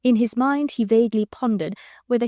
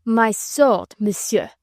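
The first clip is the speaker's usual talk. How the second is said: rising temper; 2 semitones higher, much slower than usual. Acted. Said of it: "beginning to lose his temper".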